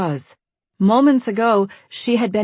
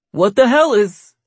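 shocked; 4 semitones higher, 7 dB louder than usual. Acted. Shocked discovery.

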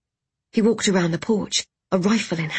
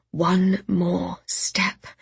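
drawn-out weary whisper; slow whisper; much slower than usual. Acted. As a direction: murmur it again, drained. Repeated to herself over and over.

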